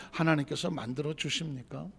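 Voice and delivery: ordinary talk, nothing marked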